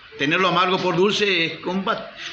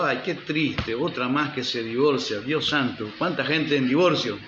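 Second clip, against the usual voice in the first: retold lament; 3 semitones lower, 3 dB quieter than usual. Retells own lament at divorce news.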